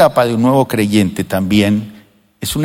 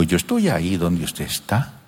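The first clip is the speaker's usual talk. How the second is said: quiet; 6 semitones lower, 8 dB quieter than usual. Retold or imitated. Grandfather to granddaughter, quiet.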